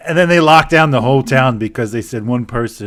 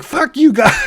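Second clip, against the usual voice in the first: higher, louder sung-out curse; mock angry; 12 semitones higher, 5 dB louder than usual. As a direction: belt it at them in a mock rage. Guy refuses vaccine trick.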